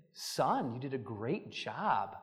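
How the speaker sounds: soft, low, unhurried praise; tender, quiet approval, lightly acted; gentle motherly praise. Mother praising her son, voiced.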